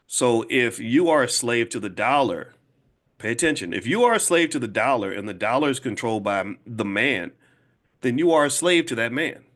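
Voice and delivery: deliberate, with pauses between the points; slow, repeating for emphasis. Real, not acted. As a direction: spell it out so it sinks in. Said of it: "I'm saying it slowly and repeating myself".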